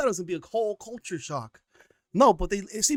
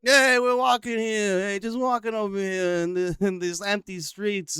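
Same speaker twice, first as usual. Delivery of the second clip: slow, higher put-on voice of a cheerful comedian strolling; lightly lampoon him strolling, drawn out; mock tourist voice; 3 semitones higher than usual. Host mocks Bill Burr strolling Saudi streets, slow higher put-on voice.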